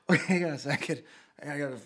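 spluttering after swallowing a bug; just swallowed a bug. Real, not acted. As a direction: talk through a bug in the mouth. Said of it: "bug flew in my mouth there".

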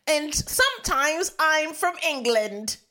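lightly hammed-up English accent. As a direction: put on a mock English accent, unhurried. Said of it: "doing this English accent".

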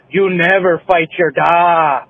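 slow, drawn-out mock-Scottish accent. Joking at work among coworkers, slow put-on Scottish accent. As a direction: deliver it as a slow Scottish catchphrase. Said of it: "she has a Scottish accent".

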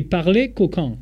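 slow, savoured French accent. Shown as a demonstration. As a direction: linger over it in a French accent. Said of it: "con tu acento francés".

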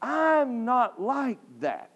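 a hint of a shy, hesitant member making excuses; lightly voiced objector; reluctant churchgoer telling the preacher why they cannot praise; imitating a reluctant churchgoer. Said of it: "someone might say".

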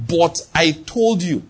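very slow, measured reproach; God's dreaded reproach. Acted. The Lord answering his excuse, slowly reproachful. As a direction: draw out each word as a weighty reminder. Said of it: "and he says".

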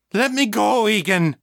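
high-pitched, struggling demand; furious demand. A narrator's reading. Mother held back by Egan, furious demand. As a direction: demand release, fighting mad.

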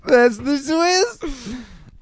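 slow, wailing mock-tearful twist; hammed-up crying reveal. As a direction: overact it like sobbing at a plot twist. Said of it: "dramatic reveal repeated".

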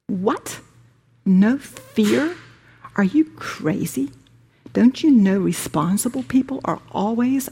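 lightly voiced incredulous ego, some lines whispered; mocking ego. Preacher voicing the ego mocking the listener's choices, lightly. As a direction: scoff as the ego at each idea, half-mocking. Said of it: "The ego will howl".

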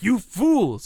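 hammed-up outrage, shouting at the radio; retold scream. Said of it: "I was, like, screaming at my radio".

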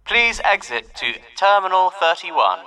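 slow, calm, serene terminal announcer; calm airport announcer, every word drawn out; airport announcement voice. Shown as a demonstration. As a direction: read it like a calm airport tannoy. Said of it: "do your best airport voice".

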